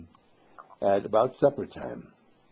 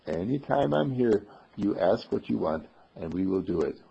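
gentle reassurance; 4 semitones lower, 4 dB quieter than usual. Acted. Mister Candle gently reassures the boy.

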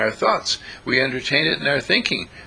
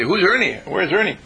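puzzled asking; 5 semitones higher than usual. Pretend. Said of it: "And they say".

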